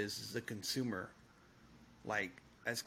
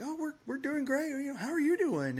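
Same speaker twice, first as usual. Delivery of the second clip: bright, much higher friendly greeting; overly sunny hello, high and sing-song; cheery reply; 13 semitones higher than usual. Retold or imitated. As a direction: pitch it way up, chirpy and eager to chat. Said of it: "And we're like".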